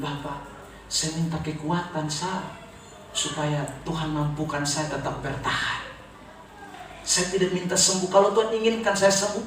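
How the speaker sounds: subdued retelling of a faint voice; imitating weak patient. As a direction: quietly voice a failing patient's plea. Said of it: "suaranya memang sudah tenggelam".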